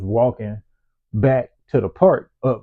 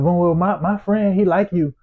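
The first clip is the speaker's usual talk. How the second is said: mock girl's voice; 6 semitones higher than usual. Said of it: "and she's like".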